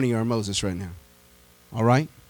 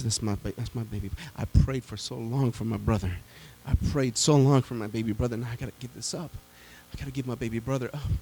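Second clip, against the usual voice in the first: grieving sister; 4 semitones lower than usual. Retold or imitated. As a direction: mourn the baby brother under the breath.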